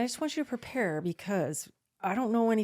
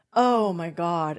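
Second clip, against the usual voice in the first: slow, louder, drawn-out "Oh my God" of relief; relieved oh my God; 5 dB louder, much slower than usual. Retold or imitated. Dad hearing his daughter's news, slow and relieved. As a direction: let the relief stretch each word. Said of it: "like that, but it wasn't".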